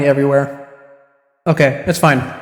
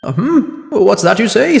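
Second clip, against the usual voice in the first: put-on hard-of-hearing old juror; 5 semitones higher than usual. Elderly juror asking to repeat.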